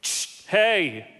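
firm hushing "Shh, hey"; calming dog trainer. Retold or imitated. Dog trainer calming an unruly dog, firm hush. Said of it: "and he would go".

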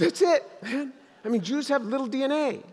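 chuckling as he delivers the punchline; laughing through a joke. Retold or imitated. Answering the big Texan husband with a joke, laughing. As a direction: let laughs break into the words. Retelling his joking reply.

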